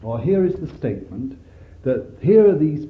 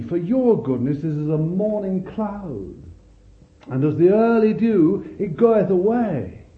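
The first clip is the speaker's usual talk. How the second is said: heartbroken plea; 3 semitones higher than usual. Acted. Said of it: "he's heartbroken".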